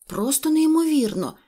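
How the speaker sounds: high, astonished; puppy baffled by the vanished trail; amazed thought. A narrator's reading. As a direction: gasp it out in disbelief. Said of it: "подумав Курдуплик".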